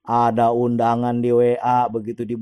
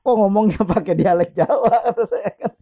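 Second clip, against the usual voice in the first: higher voice breaking into laughter; laughing; 8 semitones higher than usual. Retold or imitated. Speaker retelling his comeback to the fake Heru, laughing. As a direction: laugh through the punchline. Amused retelling of exposing the scammer.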